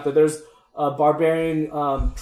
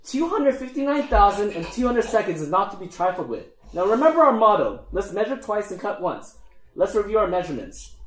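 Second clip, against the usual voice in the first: lightly voiced gnome, pitched up; mildly officious higher gnome voice; pedantic gnome leader; 4 semitones higher than usual. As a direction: lecture a worker as a fussy gnome boss.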